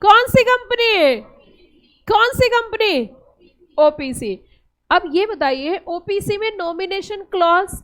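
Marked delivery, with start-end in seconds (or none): 0.0-3.1 loud slow question. Shown as a demonstration. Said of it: "जोर से बोलिए".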